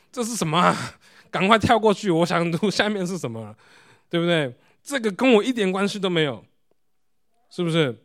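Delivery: mock a reader itching to skip ahead; impatient newcomer. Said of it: "你的感受是什么". (模仿不耐烦的新读者，想跳过去)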